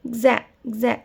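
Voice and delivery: గ్జా said twice as a buzzing gza; demo gza sound. Shown as a demonstration. Teacher showing how x sounds in exactly. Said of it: "ఎక్స్ని గ్జ్ అని రాస్తారు".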